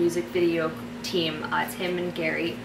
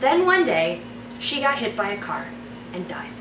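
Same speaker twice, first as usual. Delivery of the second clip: story narration. Acted. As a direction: read it like a bedtime story. Reads her fairy tale aloud.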